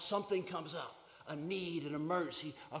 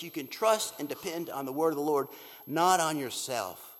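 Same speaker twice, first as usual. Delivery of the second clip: loud declaring; 6 dB louder than usual. Acted. Preacher declares the refrain.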